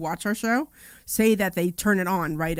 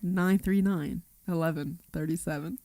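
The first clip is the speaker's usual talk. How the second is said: sultry narrator; slower than usual. Shown as a demonstration. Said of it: "you actually sounded".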